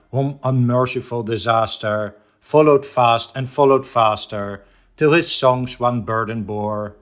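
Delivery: measured, rhythmic verse reading; solemn cadence with a hushed final word; poem recitation. Acted. Recites The Raven stanza by stanza.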